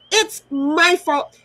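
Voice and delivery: It's my fault, slow and deliberate, each word dragged; slow sarcastic. Real, not acted. Bitter slow repeat to the auntie blaming her.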